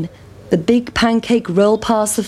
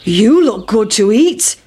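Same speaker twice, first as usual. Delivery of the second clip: lightly voiced hungry cow; the cow eyeing the pancake; a hint of a cow voice; 3 dB louder than usual. A narrator's reading. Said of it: "shouted the cow".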